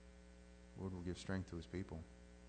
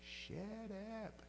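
soft shush; 11 semitones higher, 8 dB quieter than usual. Shown as a demonstration. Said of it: "the thing that you yell at the dog".

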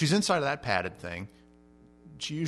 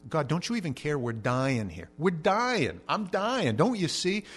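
rising panicked plea, higher toward the end; mock desperate disciples crying out; 3 semitones higher, slower than usual.

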